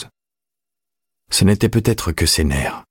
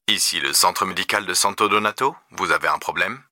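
soft telephone operator voice; lightly voiced switchboard operator; phone operator; 2 semitones higher, 4 dB quieter than usual. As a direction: answer the emergency line, quietly professional. Emergency operator answers the phone.

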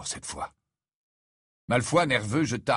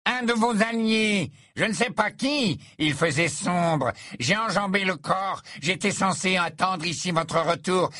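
put-on much higher, tense young voice; rattled boy, voice pitched up; high-pitched panic; 9 semitones higher than usual. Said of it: "d'une voix qui sembla monter d'un octave".

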